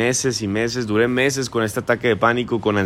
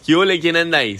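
catchphrase greeting, called out; 3 semitones higher, faster than usual. Pretend. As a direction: call it out like opening a show. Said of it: "Ya empecé con mis frases célebres".

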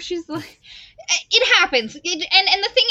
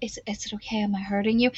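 soft caring quote; 5 semitones lower, 6 dB quieter, much faster than usual. Retold or imitated.

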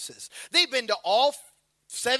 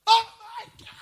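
mock parent panic; 10 semitones higher, 4 dB louder than usual. Parent reacting to fallen child.

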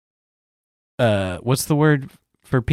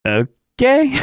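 stunned okay; 13 semitones higher than usual. Retold or imitated. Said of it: "And I was like".

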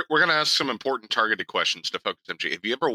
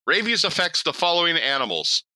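higher, deliberate read-aloud voice; reading out loud; 5 semitones higher than usual. Retold or imitated. Imitating a friend reading up on rabies, deliberate read-aloud. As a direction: announce it as if reading out a web page. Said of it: "he's reading this out loud".

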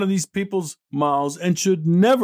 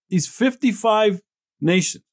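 normal talking voice

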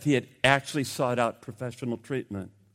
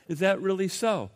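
amused; 3 semitones higher, 4 dB quieter than usual. Retold or imitated. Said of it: "God, somewhat amused".

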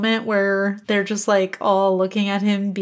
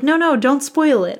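mock protest; 5 semitones higher, 5 dB louder than usual. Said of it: "I was like".

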